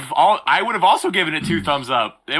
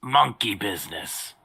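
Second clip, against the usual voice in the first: lightly voiced Bane; half-hearted attempt at Bane; 6 semitones lower, 6 dB quieter, slower than usual. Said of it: "I can't do Bane's voice".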